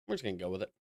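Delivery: talking through a yawn; words stretched by a yawn. Real, not acted. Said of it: "I'm yawning a little bit".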